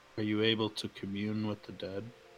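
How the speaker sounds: said softly. Player's character walks over to another character and asks: quiet. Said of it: "quietly say".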